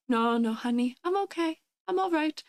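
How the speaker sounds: high-pitched, frail little grandma voice. Acted. Grandma reassuring her grandchild from the corner, high little-old-lady voice. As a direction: play a grandma politely declining help. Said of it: "your little grandma who's sitting in the corner".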